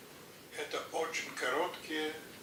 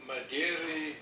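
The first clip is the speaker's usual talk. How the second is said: poem recitation; 3 dB quieter than usual. Acted.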